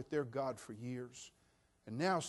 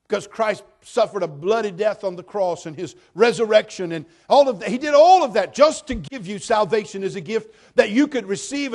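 loud, higher, passionate preacher delivery; full-force preaching; 6 semitones higher, 15 dB louder than usual. Acted. Pastor preaching salvation loudly to the church. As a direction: proclaim it with fire.

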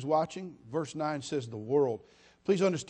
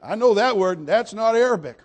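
rising, louder, catching the word; imitating himself, suddenly alert and amused; retold surprised exclaim; 3 semitones higher, 7 dB louder than usual. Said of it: "And I went".

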